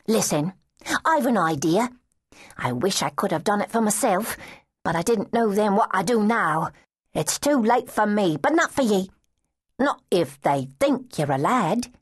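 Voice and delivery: a lass hatching a scheme; street girl. Acted.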